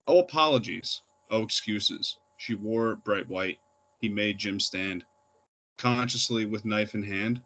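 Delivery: measured verse reading, short phrases set apart by pauses; poetry reading. Acted. Poet reading a murder poem to an open-mic audience, measured recital. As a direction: read it line by line, letting each phrase land. Reads own poem aloud.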